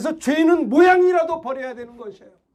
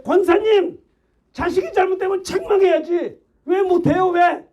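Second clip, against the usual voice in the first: retold shout; 5 semitones higher than usual. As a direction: shout the rebuke at the elderly deaconess again. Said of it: "소리를 질렀어요".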